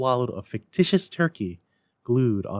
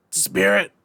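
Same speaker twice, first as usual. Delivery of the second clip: broken voice; 9 semitones higher, 6 dB louder than usual. A narrator's reading. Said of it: "in a broken voice".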